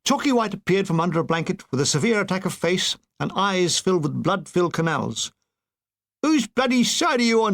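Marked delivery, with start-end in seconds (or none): 6.2-7.5 higher, grumbling complaint; groaned. Acted. Woken soldier complaining at the bugle call, groaning. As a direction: moan it at the bugler. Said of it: "he groaned".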